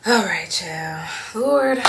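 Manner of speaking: high, loud exclamation; loud cry to the Lord. Real, not acted. Overwhelmed by memories, she cries out high and loud. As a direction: call out to God, overwhelmed.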